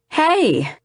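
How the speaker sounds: high, squeaky sheepish apology. A narrator's reading. Friend apologizing on the phone, in a high squeak. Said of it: "he squeaks".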